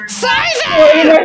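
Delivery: high loud screeching creature shout; Scyther impression. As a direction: shriek the name like an insect Pokemon. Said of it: "I can do Scyther".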